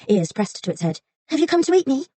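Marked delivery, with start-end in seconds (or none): 1.3-2.0 high, small frightened fox voice; timid little fox. A narrator's reading. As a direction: play a meek fox shrinking back.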